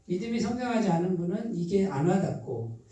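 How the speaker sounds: ordinary talk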